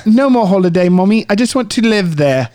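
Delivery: lightly played pleading child, joke Detroit accent; mock Detroit accent. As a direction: ask mummy in a put-on Detroit accent. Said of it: "here's your Detroit accent".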